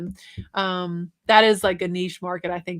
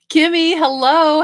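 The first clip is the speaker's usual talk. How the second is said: excited hello; 8 semitones higher, 10 dB louder, slower than usual. Real, not acted. Greeting a viewer joining live.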